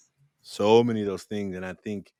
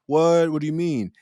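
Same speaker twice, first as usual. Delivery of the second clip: high, louder mock shock; dismayed disbelief; 7 semitones higher, 5 dB louder than usual. Worker hit by bad news, acted dismay. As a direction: blurt it high and startled. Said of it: "So it went from".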